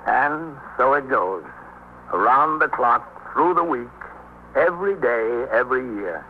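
slow solemn narrator voice; weary wrap-up narration; closing narration. A narrator's reading.

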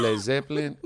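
put-on cab driver's Mexican-accented pronunciation; imitated Mexican accent. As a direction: say the band name in a Mexican accent. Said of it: "the quintessential Mexican accent".

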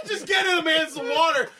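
mock exasperated plea; laughing exasperation. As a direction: beg through laughter for water. Retold outburst while laughing.

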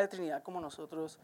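whispered doubt; whispered aside. Real, not acted. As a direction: whisper the line as a confiding aside. Confiding aside in doubt story.

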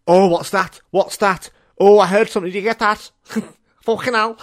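high, loud, mock-startled outburst; startled reaction. Hearing something spooky, acted startled and high-pitched. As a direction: act out a jumpy double-take.

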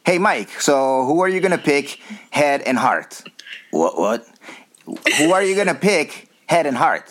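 a playful take on Klaus asking; imitating Klaus. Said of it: "I'll try to Klaus".

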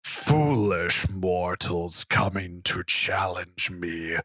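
slow, menacing dragon growl; boastful beast gloating slowly. Acted. Dragon villain speech in story.

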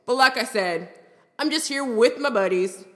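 lightly voiced frat bro; a hint of a bragging dude-bro. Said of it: "Him, in a frat bro voice".

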